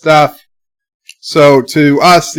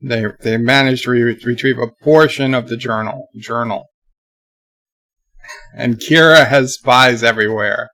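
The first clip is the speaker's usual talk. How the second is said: talking while crunching chips. Real, not acted. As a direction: mouth full of chips. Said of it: "Sorry about the crunching".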